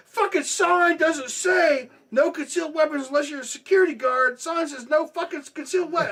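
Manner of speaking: high, loud, outraged telling-off; indignant yelling. Retold or imitated. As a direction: re-enact a furious rant at the offender. Retold yelling at robber, brandishing dildo.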